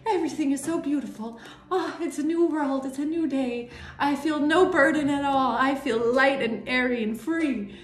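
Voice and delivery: lightly acted airy bliss, pitch lifted; carefree Fool. The Fool enjoying a new day, mock carefree delight. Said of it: "in the Fool energy, like, so".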